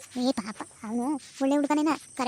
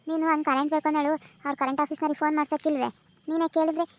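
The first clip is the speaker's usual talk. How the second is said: cheerful granddaughter answering grandma; young village woman. Acted. (ಸ್ವಲ್ಪ ಎತ್ತರದ ಧ್ವನಿಯಲ್ಲಿ ಹುಡುಗಿ)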